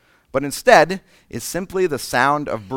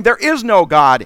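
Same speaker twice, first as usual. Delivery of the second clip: loud, higher, slowed-down insistence; vociferous denial; 4 semitones higher, 7 dB louder than usual. Pretend. Preacher acting an atheist arguing with someone, loud insistence. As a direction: argue it hard like a convinced atheist. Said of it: "you're vociferous about it".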